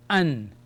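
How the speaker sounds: "an" as one closed syllable; Arabic "an" syllable, sounded out for learners. Shown as a demonstration. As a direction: say "an" ending on a clear n. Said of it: "gives me the sound of".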